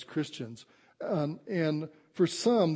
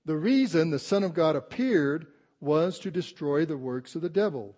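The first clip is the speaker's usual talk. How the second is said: scripture reading; 4 dB louder than usual. Acted. Reads scripture to congregation.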